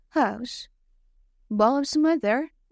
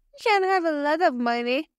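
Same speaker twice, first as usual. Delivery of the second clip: eager boast; 5 semitones higher, faster than usual. Acted. Bob boasts to the old man.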